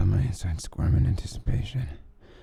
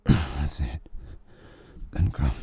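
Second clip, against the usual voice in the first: gasping; 3 semitones lower, slower than usual. Acted. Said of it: "he gasped".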